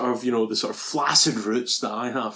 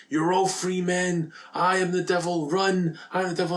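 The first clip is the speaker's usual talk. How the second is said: mock melodramatic proclamation; 4 semitones higher than usual. Podcaster voicing vampire freeing his slaves, mock melodrama. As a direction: lightly act a tortured confession. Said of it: "he goes".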